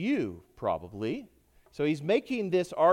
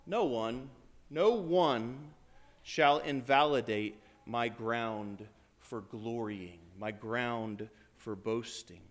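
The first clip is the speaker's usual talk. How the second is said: resolute declaration; 5 semitones lower, slower than usual. Retold or imitated. Voicing Paul's resolute claim.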